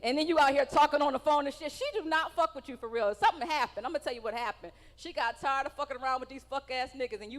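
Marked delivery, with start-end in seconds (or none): 0.0-1.7 loud, angry rant imitating a wife; mad wife. Comic voices the date's wife fed up with him, mock angry rant. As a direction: voice her fuming at full volume. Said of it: "She is mad as fuck".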